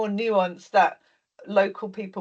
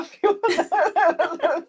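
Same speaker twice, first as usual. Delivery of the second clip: teasing laugh; 9 semitones higher, much slower than usual. Real, not acted. Teasing about cider, laughs.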